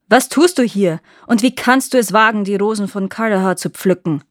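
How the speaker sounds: put-on knight snaps at the girl, loud and sharp; angry snapping. Young knight confronts Janet picking his roses, angry loud snap. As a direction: bark it at her like a stern guardian. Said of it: "fuhr er das entsetzte Mädchen an".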